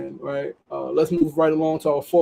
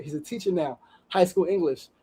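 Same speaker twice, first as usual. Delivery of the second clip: softer, choked-up repeat; 5 dB quieter than usual. Real, not acted. Host repeating the line, choked up with emotion. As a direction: say it again, caught by emotion. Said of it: "This shit has got me crying".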